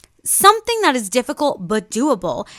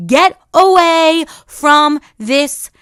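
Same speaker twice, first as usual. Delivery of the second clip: inner voice screaming; 4 semitones higher, 4 dB louder than usual. Pretend. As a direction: shout it as if the voice is in your face. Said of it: "until it's screaming in your face saying".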